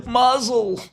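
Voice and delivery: put-on high sing-song Yiddish accent. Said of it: "Jewish people are like".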